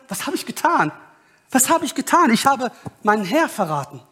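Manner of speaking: high-pitched, stricken self-questioning; acted dismay. Sinner realising he betrayed his Lord, dismayed and high.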